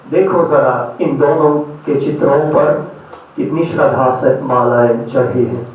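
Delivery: declaimed verse, pausing between phrases; poetry recitation. Acted. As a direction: recite philosophical verse, letting each line land. Recites philosophical poems to audience.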